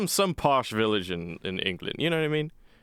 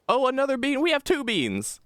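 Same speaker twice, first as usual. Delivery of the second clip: high, excited squeal of discovery; delighted. Real, not acted. Gamer finding another bean in the troops, high delight. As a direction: pitch it way up with glee.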